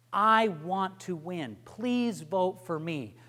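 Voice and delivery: mean every word, looking straight at them; sincere. Shown as a demonstration. Coach demos a sincere closing plea to the camera. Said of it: "You look straight into the camera and you say".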